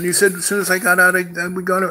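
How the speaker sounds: high, loud, fast excited chant; bursting with excitement about the trip; gleeful shouting Gary. Retold or imitated. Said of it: "He goes".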